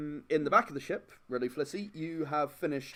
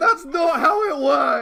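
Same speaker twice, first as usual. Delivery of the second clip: exasperated, mocking, very high and louder; 12 semitones higher, 13 dB louder than usual. Repeating back what Adam just said to the group: imitating Adam. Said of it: "this is Adam. He's just like".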